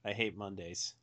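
deadpan like a bored fat cat; Garfield voice. Retold or imitated. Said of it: "And I talk without moving my mouth".

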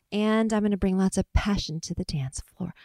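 lightly put-on English accent; a hint of affected English accent. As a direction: imitate an English-accented audition answer. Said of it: "I sounded like Mark Ballas".

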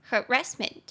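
"harassment" stressed on its second syllable, ras. Shown as a demonstration. Teacher demonstrating "harassment", stress on the middle syllable. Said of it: "重音节在第二音节".

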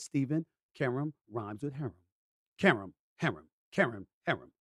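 "Karam" drilled to rhyme with "harem"; Karam rhyming with harem. Shown as a demonstration. Host repeating co-host's lesson on her name, "Karam" like "harem". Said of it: "That's what she wants me to say".

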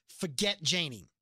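slow, firm command. Retold or imitated. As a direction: lay it down slowly like an order. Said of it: "he told him last week".

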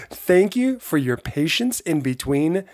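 hoarse, worn-out voice. Real, not acted. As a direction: speak through a hoarse throat. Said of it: "my voice is a bit hoarse".

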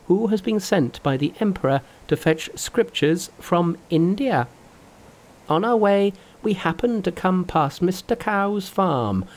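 high, lively trickster voice; high cocky Monkey voice; Monkey's voice. Acted. Monkey explains in story.

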